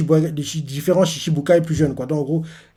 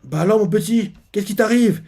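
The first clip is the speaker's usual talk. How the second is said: put-on gentle concerned girl; 5 semitones higher than usual. Bonnie voiced comforting a child.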